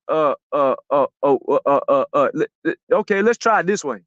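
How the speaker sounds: low, halting string of uhs; stalling thinker. Retold or imitated. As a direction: imitate someone stuck thinking, then restarting. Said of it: "then he would be like".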